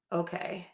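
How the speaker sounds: "okay" very soft with a rise; quiet doubtful okay. Shown as a demonstration. Friend showing readings of a text, soft rising okay. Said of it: "okay is the perfect one".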